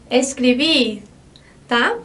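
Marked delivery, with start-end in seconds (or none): 0.1-1.0 "escrever" with the weight at its end; final-syllable stress. Shown as a demonstration. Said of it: "faz com que essa sílaba mais forte fique aqui no final".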